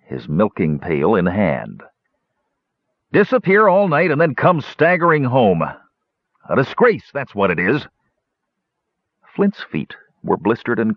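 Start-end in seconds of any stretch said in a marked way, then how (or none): 3.1-7.9 high-pitched, huffy scolding; in a huff. A narrator's reading. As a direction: scold him like an indignant brother. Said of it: "Rubric was in a huff".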